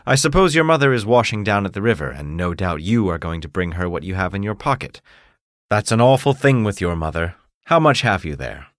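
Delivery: put-on the mayor talking down to the poor boy; stern mayor. Mayor scolding a poor boy, lightly pompous.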